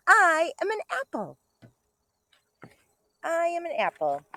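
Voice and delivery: bright storybook read-aloud; reading to children. Acted. Teacher reading a picture book to kindergartners, bright and lively.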